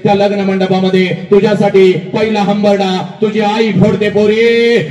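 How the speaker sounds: sustained, chant-like orator's delivery; impassioned preaching. Acted. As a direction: declaim the wedding scene in one unbroken, insistent stream. Emotional oratory about a wedding.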